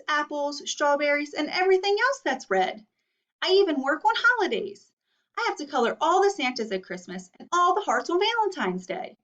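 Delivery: a hint of an exhausted crayon complaining; Red Crayon's letter. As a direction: read it as a tired, overworked crayon. Teacher reads Red Crayon's letter.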